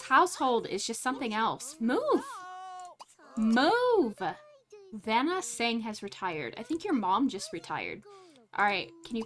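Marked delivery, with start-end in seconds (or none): 1.8-4.2 high, loud order to move; sharp, raised "Move!"; mock yell. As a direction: shoo them out of the way. The speaker yells at blocker.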